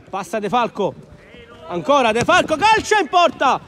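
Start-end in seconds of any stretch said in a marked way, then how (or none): 1.7-3.6 excited shot call. Real, not acted. Shot on goal in commentary.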